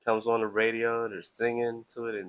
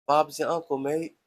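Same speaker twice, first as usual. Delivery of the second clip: attempted Australian accent, higher and a bit louder; 4 semitones higher, 4 dB louder than usual. Shown as a demonstration. Streamer showing viewers his accents, attempted Australian. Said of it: "and Australian accent".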